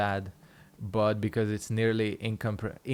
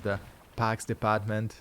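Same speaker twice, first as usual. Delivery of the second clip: light imitation of a Boston politician, "parks" with a softened r; a hint of Boston in "The parks department"; Boston accent. Streamer retells a Boston politician on YouTube, mild Boston accent. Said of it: "and he just goes".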